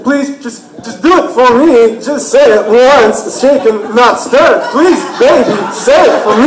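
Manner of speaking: pleading in halting bursts; bouncy pitch, hard odd stresses, coaxing; Christopher Walken. Retold or imitated. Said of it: "I would do Christopher Walken to him".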